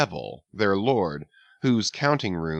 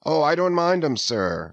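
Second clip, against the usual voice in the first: sailor Archie; 6 semitones higher than usual. A narrator's reading. Archie answering Flask, eager. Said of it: "said Archie".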